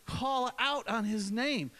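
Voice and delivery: slow, emphatic call on the name; preacher calls the name out slowly instead of mumbling it; call out loud. Shown as a demonstration. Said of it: "And don't just say, say the word out".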